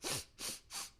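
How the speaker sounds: short sharp sniffs through the nose; quick huffs of short breath; angry sniffing. Shown as a demonstration. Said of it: "when you get angry, you get the".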